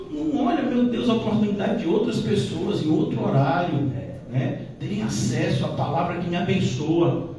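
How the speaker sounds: ordinary delivery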